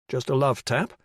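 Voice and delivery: "Just a love tap?" repeated in a disbelieving rising question; incredulous echo. Acted. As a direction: throw her words back in disbelief. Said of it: "It was just a love tap".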